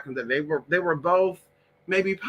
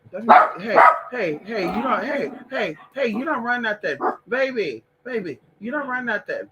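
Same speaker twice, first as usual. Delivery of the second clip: scolding the dog; 5 semitones higher, 4 dB louder than usual. Real, not acted.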